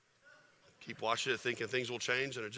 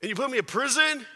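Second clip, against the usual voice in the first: higher, louder mock outrage at God; imitating angry Paul; 6 semitones higher, 8 dB louder than usual. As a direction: play Paul fed up and shouting at God. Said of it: "Paul could have been angry".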